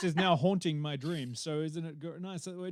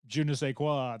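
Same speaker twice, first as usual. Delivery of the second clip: hammed-up French "je ne sais quoi", lower and deliberate; 4 semitones lower, 3 dB louder than usual. Shown as a demonstration. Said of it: "or as the French say".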